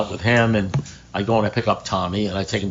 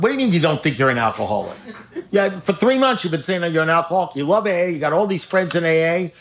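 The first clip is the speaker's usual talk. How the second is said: higher, pressing disbelief, retold; incredulous outburst; 7 semitones higher than usual. Retold argument with sponsee.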